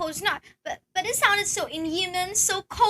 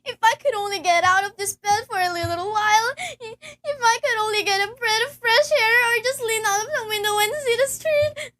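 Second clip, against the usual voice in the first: tearful longing; 3 semitones higher than usual. Acted. Bedridden woman longs for air.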